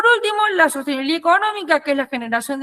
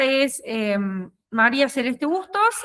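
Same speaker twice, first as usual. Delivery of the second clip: numb mouth. Real, not acted. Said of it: "tengo la cara anestesiada".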